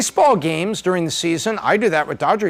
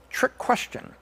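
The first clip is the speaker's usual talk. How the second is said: whisper; 4 semitones higher, 8 dB quieter, slower than usual. Real, not acted. Teasing aside before a quiz.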